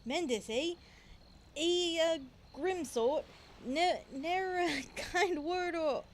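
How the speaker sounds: put-on pirate accent. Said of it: "I'm trying to do it in the accent".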